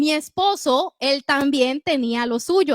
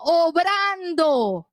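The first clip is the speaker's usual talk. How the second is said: preaching shout; 3 semitones higher, slower than usual. Real, not acted. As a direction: drag out obrando with force. Predicadora proclama la obra de Dios. (proclamación fuerte y lenta)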